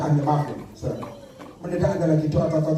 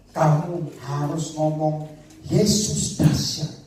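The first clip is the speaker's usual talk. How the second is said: slow, whispered divine instruction; a slow whispered divine command; voice of God; much slower than usual. Acted.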